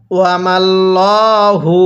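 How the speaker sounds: ওয়ামাল্লাহু with a thick, heavy lam, slowly drawn. Shown as a demonstration. Teacher shows students the thick lam in ওয়ামাল্লাহু. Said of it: "কিভাবে পড়ব?".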